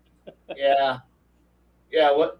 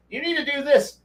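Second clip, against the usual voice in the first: bossy player; 10 semitones higher than usual. Retold or imitated. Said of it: "everyone's gonna be like".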